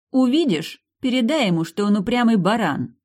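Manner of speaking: loud, deliberate message for the guard; slow and loud. A narrator's reading. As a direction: call it through the door, deliberately. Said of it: "медленно и громко произнесла я".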